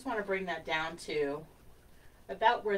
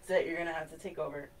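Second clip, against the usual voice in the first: laughing; faster than usual. Real, not acted. Joking after coughing fit.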